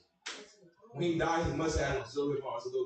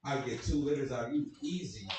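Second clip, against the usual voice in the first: imitating dad. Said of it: "I was like".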